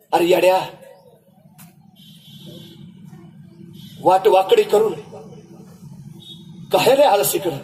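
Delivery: आईचा आवाज. Acted. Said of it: "आई म्हणाली".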